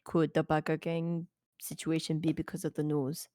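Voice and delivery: lightly voiced, halting interviewer; hesitant interviewer. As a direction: feel your way through a careful question. Player voices interviewer questioning biker.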